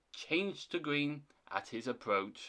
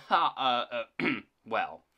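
hemming and hawing; awkward hesitation; 3 semitones lower, 4 dB louder than usual. Acted. Thomas asked where he had been, awkward. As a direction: stall with throat-clearing before answering. Thomas embarrassed, explaining his absence.

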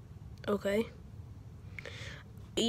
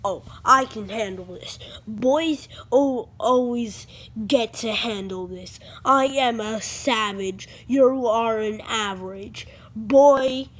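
tag; 4 dB louder, slower than usual. Pretend. Boastful toy character speech.

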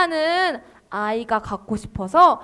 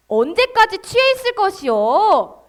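lightly acted scolding priest, pitched up; priest's rebuke; 5 semitones higher than usual. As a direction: reprove sternly in a mild stage voice. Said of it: "한나에게 제사장 엘리는". (제사장이 살짝 꾸짖는 연기)

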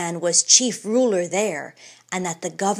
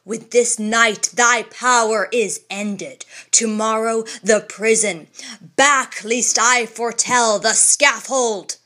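put-on stern old champion; 4 dB louder than usual. Old champion warning the governor, stern and solemn. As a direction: pronounce judgment with grave authority.

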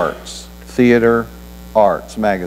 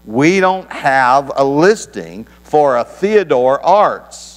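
slow, higher and rising, impatient operator; raised, impatient voice; 4 semitones higher, slower than usual. Retold or imitated. Operator telling the caller off, slow, higher and impatient. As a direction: push it up in pitch like a fed-up operator. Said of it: "raised her voice a few octaves".

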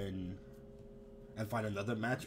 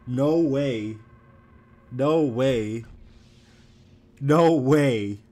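louder repeated no way; stunned protest; loud disbelief; 5 dB louder, much slower than usual. Real, not acted. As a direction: refuse to believe it.

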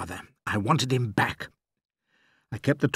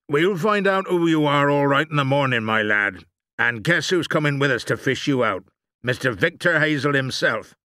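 loud, raised keeper's taunt; shouted; 5 semitones higher, 7 dB louder than usual. A narrator's reading. Keeper threatening the man in the pit, shouting. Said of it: "one of them shouted".

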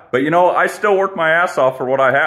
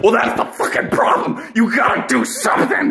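mock lecture; 6 semitones higher than usual. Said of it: "they'll be like".

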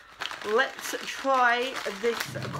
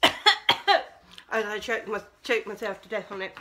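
talking while chewing; words round a mouthful of sweets; mouth full; 3 semitones lower than usual. Real, not acted. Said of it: "speaking with my mouth full".

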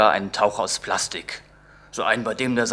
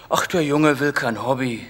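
mock weary sigh; 3 semitones higher than usual. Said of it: "seufzte mein Vater gespielt kraftlos".

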